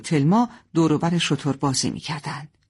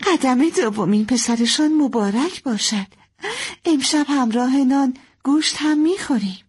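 higher, pleased, lightly laughing; cheerful, with laughter; 9 semitones higher than usual. Acted. Mother pleased at neighbours' gift of stew, lightly laughing. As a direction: begin on a small laugh, stay merry. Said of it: "با خنده گفت".

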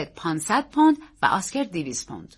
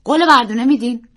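put-on higher, louder child's plea; eager young nephew; earnest boy; 5 semitones higher, 10 dB louder than usual. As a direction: press for a promise in a boy's raised voice. Boy asks solemn promise.

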